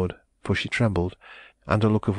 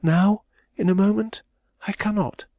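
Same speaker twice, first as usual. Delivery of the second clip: agitated refusal; 13 semitones higher, 3 dB louder than usual. A narrator's reading. Refuses his urgent demand.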